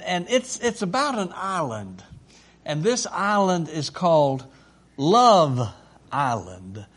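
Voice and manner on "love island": dramatic title announcement. Acted. Host announces the story title.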